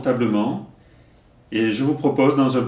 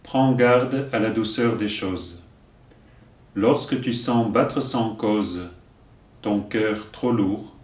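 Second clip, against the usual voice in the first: slow, deliberate verse delivery; poem recitation; slower than usual. Acted. Teacher giving verses for learners to repeat, measured recitation. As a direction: recite line by line, leaving room to repeat.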